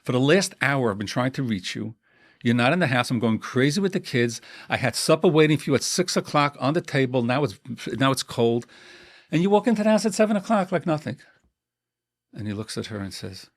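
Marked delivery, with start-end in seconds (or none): 0.0-11.2 wife scolding her late husband, mounting anger; upset wife. Acted. Wife complaining, acted quarrel.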